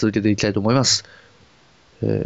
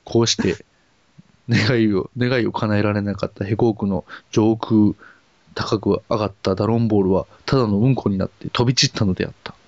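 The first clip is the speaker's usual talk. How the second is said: storybook narration. Acted.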